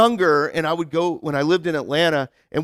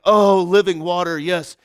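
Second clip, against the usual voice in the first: hammed-up churchy gushing, a little louder; mock worship gush; 5 dB louder than usual. Poking fun at American Christians who over-spiritualize, mock worship gush. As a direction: parody of an overeager believer. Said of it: "we overly spiritualize it right away".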